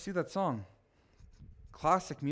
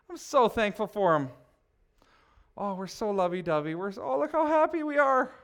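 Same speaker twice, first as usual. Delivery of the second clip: lightly voiced gushing wife; a hint of a sugary wife posing for a selfie; feminine girl voice. Preacher mocking a selfie-posing wife, lightly voiced. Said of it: "That's my feminine girl voice".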